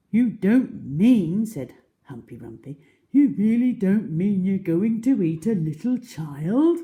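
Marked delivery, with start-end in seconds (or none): 0.1-1.4 Humpy Rumpy. Acted. Humpy Rumpy pleads with crocodile. 3.1-6.8 high, shocked little animal voice; Humpy Rumpy. Acted. Humpy Rumpy pleads with crocodile.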